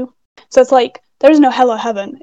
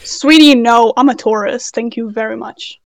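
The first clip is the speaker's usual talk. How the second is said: sassy; 5 dB louder than usual. Real, not acted. Sassy correction of friend.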